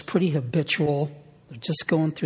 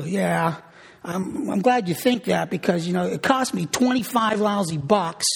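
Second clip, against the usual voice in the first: grudging husband; 3 semitones higher than usual. Retold or imitated. Husband grudgingly telling wife he'd rather watch the game. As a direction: complain about the cost and the missed game.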